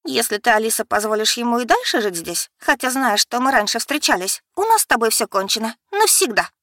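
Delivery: ультиматум с болью; hurt ultimatum. Acted. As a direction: cut the sister off forever. Sister issues an ultimatum.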